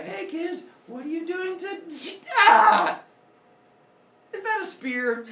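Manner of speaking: high voice breaking into a loud ah; chat, then get speared mid-sentence; high startled father yell; shocked dad. Retold or imitated. Father Sky hit by spear.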